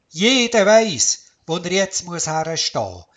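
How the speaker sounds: commanding. Acted. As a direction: give the order like a leader. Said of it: "hat der Wurzel kommandiert".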